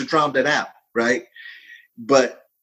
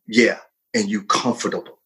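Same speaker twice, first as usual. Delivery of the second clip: inner voice; 4 semitones lower than usual. Acted. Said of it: "So the voice said".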